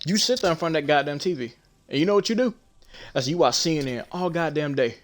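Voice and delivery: heated scolding, pitch up and rising; mock heated lecture at grandpa; angry retold rant. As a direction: tear into him for watching TV all day. Heated argument telling off grandpa.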